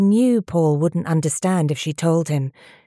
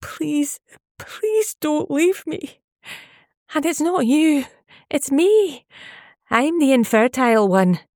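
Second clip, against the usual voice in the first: much higher, slow tearful begging; crying plea; 10 semitones higher than usual. A narrator's reading. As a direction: beg him through tears not to leave. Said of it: "the tears started rolling down her face".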